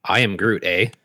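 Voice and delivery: put-on jokey Canadian accent with an "eh?" tag. Friend imagines Groot as a Canadian, mock Canadian accent. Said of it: "Canadian, I thought".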